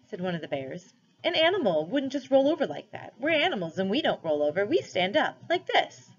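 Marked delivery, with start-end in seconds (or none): 1.2-6.1 boastful bear. A narrator's reading. Bear shows how to stand.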